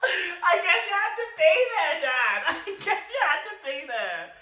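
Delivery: high, loud, cracking with laughter; laughing harder. Real, not acted. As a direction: fall apart laughing on the repeat. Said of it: "I'm just laughing".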